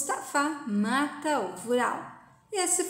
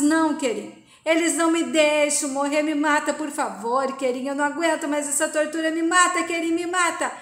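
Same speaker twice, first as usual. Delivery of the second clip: loud begging, voice pushed up high; desperate pleading; 4 semitones higher, 5 dB louder than usual. Retold or imitated. Vural begging Kerim to end his torture, loud desperate plea. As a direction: plead to be killed, louder on each me mata.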